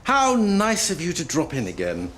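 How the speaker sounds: high, over-sweet welcome; false cheer. Acted. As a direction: greet an unwanted visitor with fake delight. Weary doctor greets returning patient.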